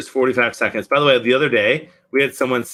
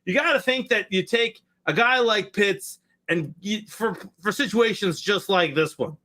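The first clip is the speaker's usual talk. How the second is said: announcer voice; 6 semitones higher than usual. Shown as a demonstration. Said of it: "Please, please use your announcer voice".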